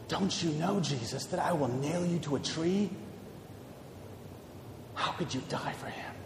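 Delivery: sinking from low and soft to a bare whisper; devil whispering. Acted. Devil whispering into Jesus's ear, fading to a whisper. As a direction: hiss the sins, fading into a whisper. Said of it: "the devil whispered into his ear".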